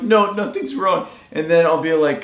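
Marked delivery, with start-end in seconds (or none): 0.0-1.1 high, slow, teary imitation of wife insisting; mock tearful denial. Partner teased for crying, high slow mock denial. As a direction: squeak it out like you're hiding tears. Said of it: "You're like".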